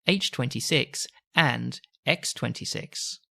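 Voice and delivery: measured announcer read. Acted. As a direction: read the facts like a station announcer. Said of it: "Paul has the best announcer voice".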